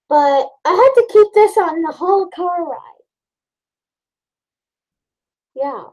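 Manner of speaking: muffled behind respirator; speaking into mask; through a face mask. Real, not acted. Seen 5: grey half-face respirator held over nose and mouth throughout.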